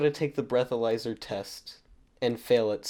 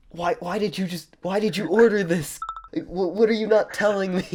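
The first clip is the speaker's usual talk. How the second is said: imitating an angry mom, pitched higher and louder; mock furious mom; 8 semitones higher, 5 dB louder than usual. Mom confronting her kid over an order, mock angry. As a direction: play the suspicious mom demanding answers. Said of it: "almost furious".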